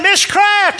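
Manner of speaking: very high, loud call; retold yell. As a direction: call out to someone hard of hearing. Yelling again at hard-of-hearing woman.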